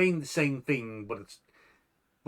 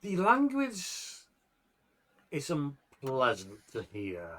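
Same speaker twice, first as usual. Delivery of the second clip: game master narration. Acted. Game master describing Lord Putty's growing form to players, measured narration. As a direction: set the scene phrase by phrase, leaving suspense.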